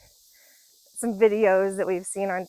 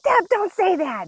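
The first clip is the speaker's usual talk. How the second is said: higher, louder hushed scolding; mortified mom; 11 semitones higher, 5 dB louder than usual. Retold or imitated. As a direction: hush the child in embarrassment. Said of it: "She's like".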